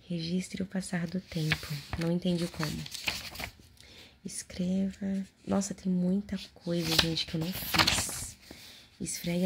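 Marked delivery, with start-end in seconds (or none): 4.2-5.3 slow drawn-out whisper. Acted. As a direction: whisper it slowly. Whispered prompt.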